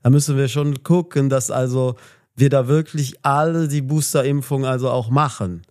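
slurring, swinging politician's warning; Lauterbach impression. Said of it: "Lauterbach kann ich auch". (Lauterbach-Imitation, höher und stockend mit vielen also)

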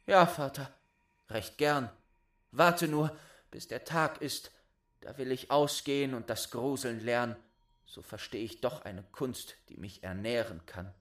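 high, bright compliant answer; eager boy. Acted. Boy cheerfully agreeing to leave. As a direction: agree readily.

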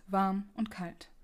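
warm und kalt repeated slowly; slow, pensive repeat of warm und kalt; slow echo. Shown as a demonstration. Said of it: "Da wurde dem Alten warm und kalt".

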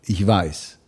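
very low, short answer; quoted cowboy reply. Acted. Voice actor retells the bar scene, low knowing reply. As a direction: answer deep, lightly in character. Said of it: "Und dann sagt er".

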